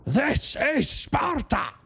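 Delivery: high, slow, drawn-out battle bellow; hammed-up Sparta bellow, dragged out; movie shout.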